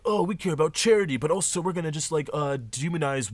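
mocking frat types. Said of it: "and they're like".

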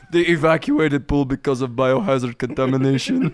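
put-on deadpan joke in a Russian accent. Reporting the evacuated pool to friends, Russian accent. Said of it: "It turned Russian".

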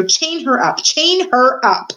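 furious order, stretched out the second time; shouted order. A narrator's reading. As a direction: bellow it as a frantic villain. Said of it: "shouted Roscuro".

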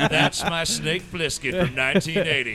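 proud mock exclamation. Goldie Hawn proudly claiming her man, loud and slow. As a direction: savour every word slowly.

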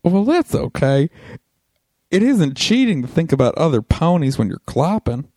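lightly put-on Japanese accent.

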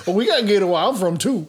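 put-on Cajun accent. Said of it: "Louisianan being convinced he knows".

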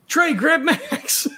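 calling out. Acted. Calling out to another character in play.

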